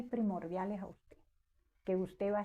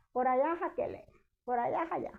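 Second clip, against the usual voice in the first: higher-pitched voice pointing out boundaries; quoted directions, pitched up; imitated father; 4 semitones higher than usual. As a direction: lightly act out a man showing the land.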